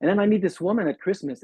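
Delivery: ordinary talk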